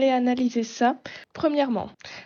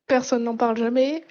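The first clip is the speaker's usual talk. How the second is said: sceptical repeat, louder; ironic echo; 3 dB louder than usual. Acted. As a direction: echo it back with doubt. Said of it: "Dans la communauté S S O, depuis trois quatre ans". (reprise ironique)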